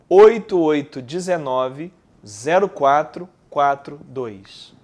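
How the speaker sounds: slow, evenly spaced digits; staccato. Shown as a demonstration. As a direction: dictate each number slowly.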